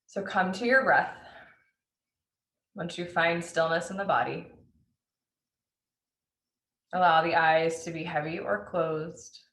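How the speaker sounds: unhurried meditation guide with long pauses; spacious, measured breath-awareness instructions; guided meditation. Acted. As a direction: lead listeners gently into noticing the breath.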